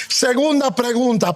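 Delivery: ordinary talk, nothing marked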